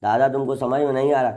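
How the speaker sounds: quick, a touch exasperated son talking back to grandpa; mildly irritated son. Retold or imitated. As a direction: brush grandpa off in a mild huff. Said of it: "अब उजिया के कह रहा है".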